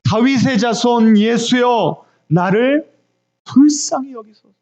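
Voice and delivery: imitated blind beggar's cry. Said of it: "어떻게 부르짖습니까".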